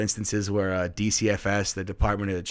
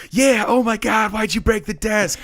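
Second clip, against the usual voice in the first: mock accusing; 12 semitones higher, 6 dB louder than usual. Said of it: "ninety percent of the class was like".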